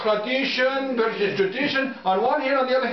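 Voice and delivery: put-on lightly French-accented. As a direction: say it with a French-sounding lilt. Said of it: "is we talking French now?".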